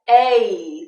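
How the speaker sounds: "A" glided as two sounds, ay; diphthong A. Shown as a demonstration. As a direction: slide from e to i on "A". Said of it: "Diphthongs are when the sound changes".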